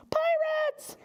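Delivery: high breathless whisper of Pirates; scared stage whisper; whispered alarm. Acted. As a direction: hiss it out in sudden fright. Alarmed whispered cry in story.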